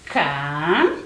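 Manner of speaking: CA-CHO- with a long pause between syllables; separated syllables. Shown as a demonstration. Teacher separating syllables for pupils, ca-cho- held apart. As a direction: draw out ca, pause, then cho. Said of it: "e separar as sílabas".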